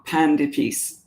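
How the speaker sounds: "Pan de peace" said slowly with a Southern accent; careful Southern-accented try at "Pan de peace". Shown as a demonstration. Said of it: "It'll be with a Southern accent".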